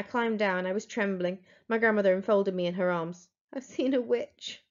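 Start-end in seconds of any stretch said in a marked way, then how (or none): 3.5-4.6 shaken. Acted. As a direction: say it slowly, still shaking. Trembling boy tells grandmother.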